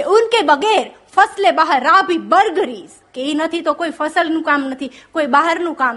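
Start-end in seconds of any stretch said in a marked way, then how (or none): 0.0-2.9 slow, savoured reading of the Urdu couplet; slow poetic recital. Shown as a demonstration. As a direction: lean into each word of the verse.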